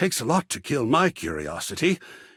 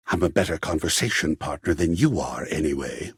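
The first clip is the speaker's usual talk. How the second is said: petty dismissal; 12 semitones lower, faster than usual. Acted. Hurt artist dismissing player.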